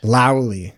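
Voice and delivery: Finnish löyly said as "Lowly". Shown as a demonstration. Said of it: "the pronunciation of the heat source".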